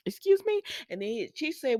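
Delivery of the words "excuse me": surprised. Retold or imitated. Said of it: "Steffi looked up like".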